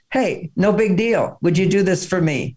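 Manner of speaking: easygoing, slightly lifted, unhurried request; casual asking. Shown as a demonstration. Wife asking husband a small favour, casual and easygoing. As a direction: ask lightly, as no big deal. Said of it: "that is asking. You see, it's like".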